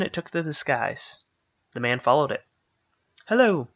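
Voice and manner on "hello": high, loud, bright chirp of a hello; a robin calling down, high and loud; chirping bird. Acted. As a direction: chirp it from above like a robin in flight. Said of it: "it chirped as it flew".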